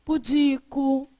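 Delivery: "Pudico" slow, stressed on DI; careful prosody reading. Shown as a demonstration. Teacher reading prosody examples to the class, slow middle-syllable stress. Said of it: "E aqui?".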